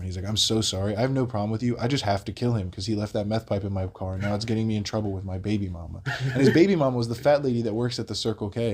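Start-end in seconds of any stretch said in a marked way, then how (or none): 0.3-6.0 matter-of-fact imitated apology; lucid, sincere. Crackhead explaining himself to the bystander, lucid and composed. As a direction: explain it evenly, as if perfectly reasonable. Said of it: "fully lucid, not screaming anymore".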